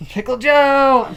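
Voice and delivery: high, slow yell; shouted. Pretend. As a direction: belt out the name. Shouted character bit.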